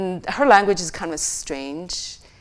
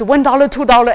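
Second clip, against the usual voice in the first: counting money; 5 semitones higher, 9 dB louder, faster than usual. Retold or imitated. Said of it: "then he says".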